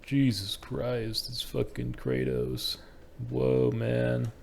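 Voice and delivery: slow stoner amazement; weed head voice. Acted. Stoner spotting Kratos, slow weed head voice. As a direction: drag it out like an awed stoner. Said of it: "a weed head, a weed head".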